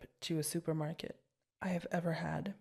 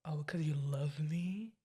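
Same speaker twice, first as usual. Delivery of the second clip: whisper; slower than usual. Real, not acted. Teasing partner close up.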